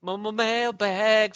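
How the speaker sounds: stuttered echo. Pretend. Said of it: "echoes the stutter".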